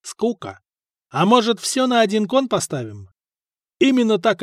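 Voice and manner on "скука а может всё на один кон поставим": higher-pitched, mildly scornful dare; a touch of bored contempt. A narrator's reading. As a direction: dismiss it, then toss out the challenge. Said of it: "презрительно сказал худой чернявый парень".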